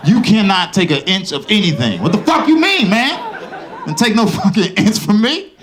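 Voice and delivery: high, loud outraged yell; outraged, refuse him loudly; outraged protest. Retold or imitated. Comic outrage at the doctor over the inch.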